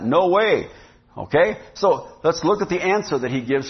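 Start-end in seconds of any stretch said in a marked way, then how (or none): 0.0-0.7 firm, punchy "No way"; emphatic refusal. Retold or imitated. Preacher voices Paul's answer to the question, emphatic refusal. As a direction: land "No way" as an emphatic denial. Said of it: "an emphatic no to that".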